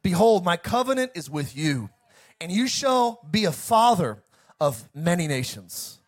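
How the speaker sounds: preacher proclaiming as God; God speaking. Acted. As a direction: read it as God's solemn promise, in emphatic phrases. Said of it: "and God talked to him".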